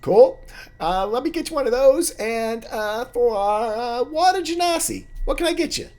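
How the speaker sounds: very high, loud squeaky halfling; chirpy barkeep greeting old friends; a high squeaky halfling barman; halfling bartender. Acted.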